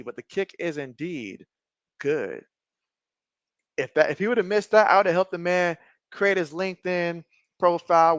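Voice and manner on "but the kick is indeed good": quiet confirmation. Real, not acted. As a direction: lower and softer, settling down. Quiet confirmation after waiting.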